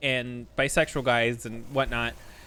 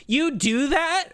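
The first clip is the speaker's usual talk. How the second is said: high, slow, horrified disbelief; shocked horror; 11 semitones higher, 3 dB louder, slower than usual. Retold or imitated. Coworker hearing the truth, high and horrified. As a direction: gasp it out like he can't believe it. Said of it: "both a mix of shock, confusion, and horror".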